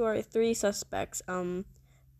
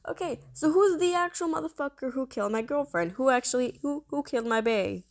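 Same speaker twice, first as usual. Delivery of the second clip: angry rapid demand; 4 semitones higher, faster than usual. Real, not acted. Girlfriend killed in game.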